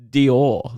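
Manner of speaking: "Dior" said loudly with a long "-or" ending; rhyming comparison. Shown as a demonstration. Comparing the friend's word to a brand, pointed "Dior". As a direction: punch out "Dior" to show the vowel. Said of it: "Why do you keep saying it like that?".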